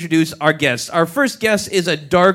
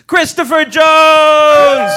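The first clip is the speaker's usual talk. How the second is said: loud, higher, drawn-out name call; announcer call; 10 semitones higher, 9 dB louder, much slower than usual. Real, not acted. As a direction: bring the guest on like a ring announcer. Announcing the final guest.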